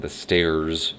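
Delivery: everyday American accent with a clear R; American accent, R fully sounded. Shown as a demonstration. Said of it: "That's my American accent right there".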